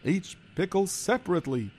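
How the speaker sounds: put-on worried Yiddish-accented kvetching. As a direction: complain like a hapless schlemiel. Figure explains.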